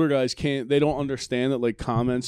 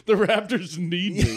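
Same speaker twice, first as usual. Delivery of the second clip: higher, drawn-out fan voice through laughter; mock self-important fan; 5 semitones higher, slower than usual. Comedian mimicking a self-important Raptors fan, mock earnest. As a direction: laughingly act out the deluded fan.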